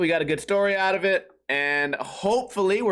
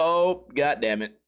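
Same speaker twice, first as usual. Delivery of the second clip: mock dismay; 5 semitones lower, slower than usual. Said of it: "you go".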